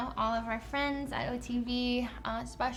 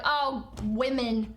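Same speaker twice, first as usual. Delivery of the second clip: mocking dismissal; 5 dB louder, much slower than usual. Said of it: "people on the internet are like".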